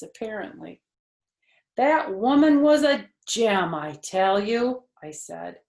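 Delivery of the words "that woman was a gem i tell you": Junie B. voice. Acted. Junie B. declaring.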